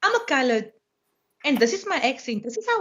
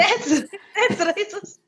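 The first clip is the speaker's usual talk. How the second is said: laughing; 5 semitones higher, slower than usual. Real, not acted. Laughing at absurd thesis.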